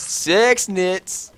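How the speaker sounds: backwards speech. Pretend. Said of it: "Sounds like you're saying something backwards".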